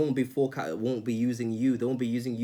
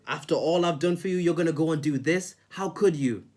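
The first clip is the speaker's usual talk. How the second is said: higher, louder wounded guilt-tripping voice; mock guilt trip; 5 semitones higher, 4 dB louder than usual. Mimicking a manipulator guilting a friend, higher and louder. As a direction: play the hurt martyr laying on guilt. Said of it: "they manipulate you and they say".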